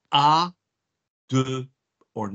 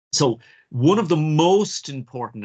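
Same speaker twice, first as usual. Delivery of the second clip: "So one of the most important" slow and louder, every word weighed; emphatic dictation; 5 semitones higher, 5 dB louder than usual. Shown as a demonstration. Teacher dictating a key rule, slow and emphatic. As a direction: weigh each word so they can write it down. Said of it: "you should be taking this down".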